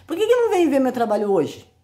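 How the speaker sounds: rising, indignant challenge to critics; why not, said with indignation; exasperated question. Real, not acted.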